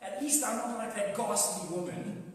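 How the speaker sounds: mock-indignant outrage; self-righteous indignation. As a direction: play the offended, morally superior churchgoer. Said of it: "will get very self-righteous very quickly".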